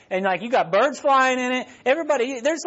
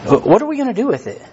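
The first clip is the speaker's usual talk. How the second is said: louder, faster repeat; 3 semitones higher, 5 dB louder, faster than usual. Real, not acted. Repeated rhetorical question.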